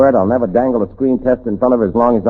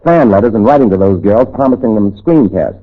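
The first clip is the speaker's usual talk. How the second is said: determined vow; 2 semitones higher, 5 dB louder than usual. Acted. Vowing to find the racketeer.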